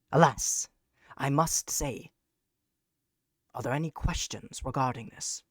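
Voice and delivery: winded, needing a breath; talking while short of breath. Real, not acted. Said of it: "so I can catch a breath".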